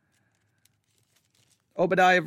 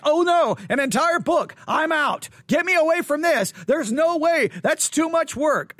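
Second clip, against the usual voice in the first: panicked student; 6 semitones higher than usual. Retold or imitated. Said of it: "somebody like".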